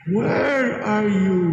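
slow, gentle, tender call. Retold or imitated. God gently calling to hiding Adam, slow and tender. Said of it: "God said gently".

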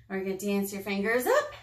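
playful lift at the end; sing-song finger-play cue ending on a rise; rising with the action. Pretend. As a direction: let the voice hop up on the last word. Finger play, voice follows the movement.

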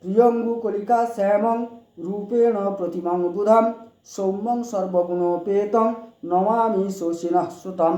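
slow, deliberate chanted Sanskrit; slow mantra recitation. Shown as a demonstration. Repeating the Budh mantra for viewers, slow chant. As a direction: recite it slowly so they can follow. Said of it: "আবার বলছি".

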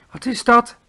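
high, loud alarmed call; startled cry. A narrator's reading. Sophie, hearing giants outside, crying out in alarm. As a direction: cry out at the sudden thunder of footsteps. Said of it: "riep Sophie".

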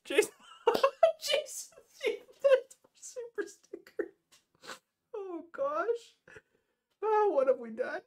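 real high, breathless laughing fit; laughing too hard. Real, not acted. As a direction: squeeze the words out between laughs. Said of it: "I'm already laughing too hard".

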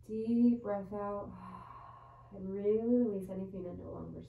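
measured yoga teacher's voice with long pauses; guided yoga meditation. Real, not acted. Yoga teacher settling students into child's pose before bed, guided meditation voice. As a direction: guide them into each breath, unhurried. Leads bedtime breathing meditation.

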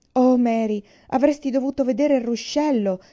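bursting to tell her sister; excited cry. A narrator's reading. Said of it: "gridò Laura".

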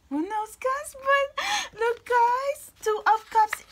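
high, loud burst of excitement; thrilled squeal. Real, not acted. Reader pointing viewers to the Two of Cups, thrilled squeal. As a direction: pitch leaps up and stays there, squealing.

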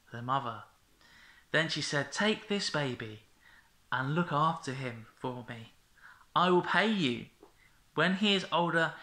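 put-on gentle read-aloud to children; storytelling. A narrator's reading. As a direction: tell it like a bedtime story. Reads Bible story to children.

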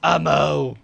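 loud happy cry; excited shout. Real, not acted. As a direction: call it out with joy. Finds ammo, relieved.

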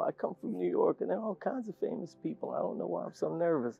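softly imitating a nervous, chattering woman; mock-nervous confiding; nervous colleague. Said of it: "I'm too nervous".

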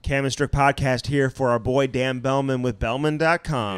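ad read. Acted. Podcast sponsor ad read.

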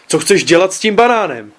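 half-hearted shout at the son; mild mock roar. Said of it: "zařval jsem". (mírně hraný řev otce na syna)

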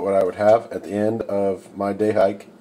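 usual speaking voice

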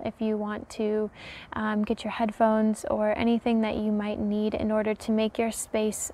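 soft, calm meditation voice; softly spoken, soothing welcome into stillness; guided meditation. Acted. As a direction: ease listeners gently into relaxing.

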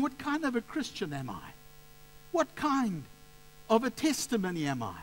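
high-pitched, pained self-questioning; mildly acted inner anguish; anguished self-reproach. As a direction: re-enact berating yourself in guilt. Acts out his guilty self-questioning.

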